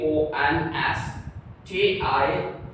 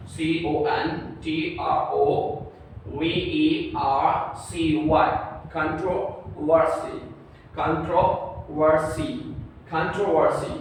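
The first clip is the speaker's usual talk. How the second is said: slow spelling drill; slower than usual. Shown as a demonstration. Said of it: "teacher drills the spelling".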